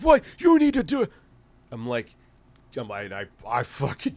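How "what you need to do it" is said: high mock coworker demand. Coworker demanding he change toilet paper, high mock voice. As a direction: squeal it like the pushy coworker.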